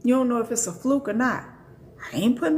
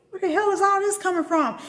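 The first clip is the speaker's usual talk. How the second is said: astonished; 8 semitones higher than usual. Retold or imitated.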